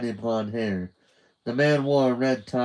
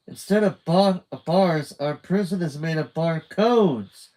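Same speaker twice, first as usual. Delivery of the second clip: louder, higher eager explanation; excited; 6 semitones higher, 5 dB louder than usual. A narrator's reading. Carmen excitedly explaining the prison to Judy. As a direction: spell out the big discovery.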